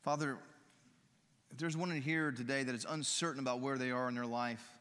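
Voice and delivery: earnest, gentle pastoral prayer; closing prayer. Acted. Pastor praying over the congregation at the close, earnest and gentle.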